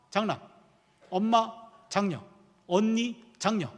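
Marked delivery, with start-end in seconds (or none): none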